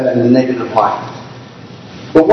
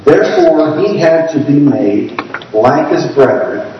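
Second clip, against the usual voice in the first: measured, deliberate scripture reading; unhurried, careful reading aloud; slower reading. Real, not acted. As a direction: read it slowly so every phrase is caught. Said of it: "read this a little bit slower".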